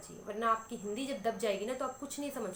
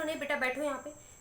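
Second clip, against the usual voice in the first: firm mother; 4 semitones higher than usual. Retold or imitated. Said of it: "आप बोलो".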